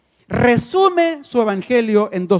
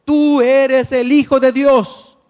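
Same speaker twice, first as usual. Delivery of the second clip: crying out; 4 semitones higher, 5 dB louder, slower than usual. Acted. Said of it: "dando voces y diciendo".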